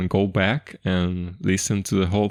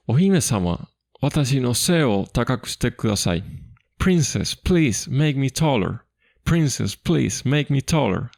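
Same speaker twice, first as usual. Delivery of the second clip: pleading little hero; 5 semitones higher than usual. Retold or imitated. Isumboshi begging the princess to make him taller, high and pleading. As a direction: beg the princess like a tiny hero. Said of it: "Then Isumboshi talks again".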